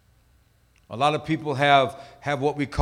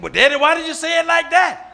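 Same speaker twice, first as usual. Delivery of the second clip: put-on child voice; 11 semitones higher, 4 dB louder than usual. Child voiced questioning father.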